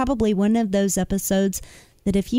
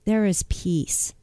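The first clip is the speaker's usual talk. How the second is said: whispering; slower than usual. Real, not acted. Heartfelt closing about finding peace.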